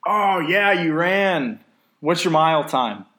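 high, loud, over-enthusiastic imitation; eager clueless non-runner. Non-runner quizzing a runner about the mile, mockingly over-eager.

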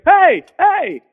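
loud, high-pitched mock holler; imitated yell. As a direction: yell like an irate homeowner flagging someone down. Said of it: "he yells at me".

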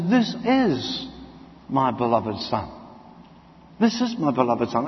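low, hushed voice of God. Acted.

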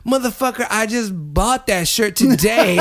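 hammed-up annoyed protest; friend's mock fury at the shirt; mock outrage. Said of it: "And he goes".

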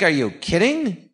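slow, stunned disbelief; half-mock shock. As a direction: drag it out, amazed. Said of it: "I'm like".

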